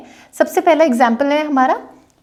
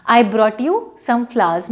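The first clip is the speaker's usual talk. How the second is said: slow example; much slower than usual. Shown as a demonstration. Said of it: "example sentence".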